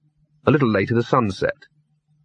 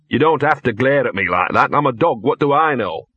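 a touch of a grumbling talking dog; lightly voiced grumbling dog. Narrator voices the dog Gaspode.

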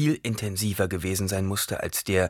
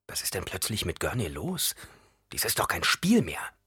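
anxious inner thought; 5 dB quieter than usual. Acted. Paul's alarmed private thought.

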